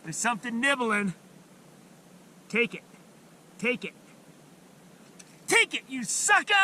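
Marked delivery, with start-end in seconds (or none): 5.5-6.5 high, eager urging at a fish; excited taunt. Real, not acted. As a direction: egg the fish on. Fish bites, calls out.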